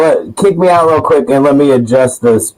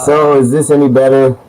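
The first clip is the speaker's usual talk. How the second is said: cave echo; 2 semitones higher than usual. Real, not acted. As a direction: still echoey, like in a cave. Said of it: "No, that's not better".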